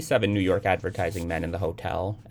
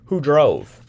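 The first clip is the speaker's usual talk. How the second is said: higher and louder sharp question; alarmed mother; 7 semitones higher, 10 dB louder than usual. A narrator's reading. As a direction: demand it in alarm.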